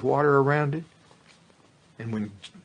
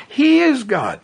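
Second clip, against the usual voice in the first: crowd shout; 14 semitones higher, 9 dB louder, slower than usual. Retold or imitated. Crowd proclaims after fire falls.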